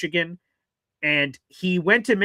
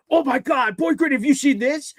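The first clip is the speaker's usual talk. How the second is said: higher excited mock gush; imitating excited people; 8 semitones higher than usual. People showing him fake news, mock excited and higher. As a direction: gush like a friend with big news. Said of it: "There have been people that said".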